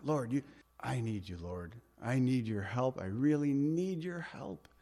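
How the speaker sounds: hushed, pleading prayer; softly begging the Lord for help; desperate plea. Shown as a demonstration. Preacher showing true crying out versus asking. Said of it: "No, cry out".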